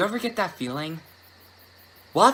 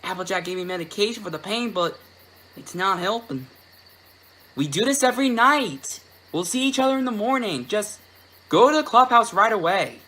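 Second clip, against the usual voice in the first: much higher, louder, pained filly; distressed country filly; 10 semitones higher, 4 dB louder than usual. Acted. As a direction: cry out like a hurting little filly. Apple Bloom in pain.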